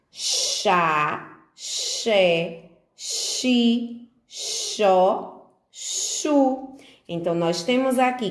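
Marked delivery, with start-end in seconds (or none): 0.1-6.8 each syllable said slowly and clearly, spaced apart; reading syllables aloud. Shown as a demonstration. Teacher leading children through the X syllables, each one drawn out. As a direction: sound out Chá, xé, xi, xó, chu one by one like a first reading drill. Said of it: "Vamos fazer a leiturinha?".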